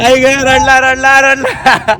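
slow, drawn-out crybaby taunt; teasing taunt. Real, not acted. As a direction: tease a sore loser, stretching the words.

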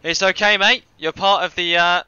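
botched Cockney slipping towards Australian; failed Cockney attempt. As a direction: try Cockney and drift Australian. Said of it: "I can't even do a Cockney accent".

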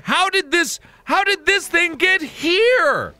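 rising disbelief, repeating it; baffled. Real, not acted. Baffled repeating the same question.

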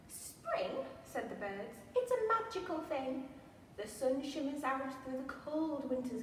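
lively picture-book read-aloud; reading to children. A narrator's reading. Museum storyteller reads Little Bear's Spring to children, animated. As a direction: read the rhyme with wide-eyed expression for little ones.

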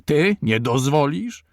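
high, loud scornful question; shouting. A narrator's reading. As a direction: throw it back at him in outrage. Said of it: "krzyknął Radziwiłł".

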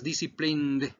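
"disciplined" with a final nd sounded; pronounced ending. Shown as a demonstration. Teacher explains the ending, final D sounded in "disciplined". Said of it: "termina en ed".

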